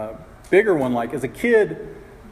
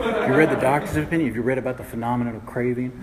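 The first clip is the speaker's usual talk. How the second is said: Stephen King horror reading. Retold or imitated. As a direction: read it like a spooky Stephen King line. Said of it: "He'd act like it was a Stephen King novel".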